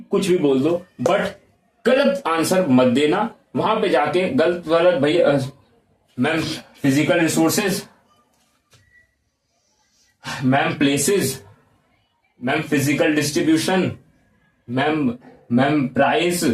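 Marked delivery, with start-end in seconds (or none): 4.9-16.4 mock fumbling student, long halting pauses; hesitant guessing. Student guessing answers for the interviewer, hesitant. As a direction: stall between each guessed answer.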